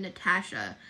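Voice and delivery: Natasha with the A of cat; American A in Natasha; American-style Natasha. Shown as a demonstration. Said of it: "Natasha just sounds American".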